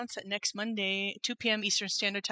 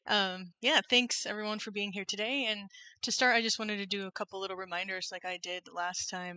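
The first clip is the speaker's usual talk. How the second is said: tinny, echoey mic sound; metallic echo. Real, not acted. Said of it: "like, metallic or with echo".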